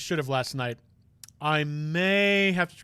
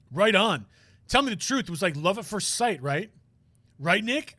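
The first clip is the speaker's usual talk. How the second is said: cocky show-off; 3 semitones higher than usual. Acted. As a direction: brag to friends about your big moment. Voices boastful friend character.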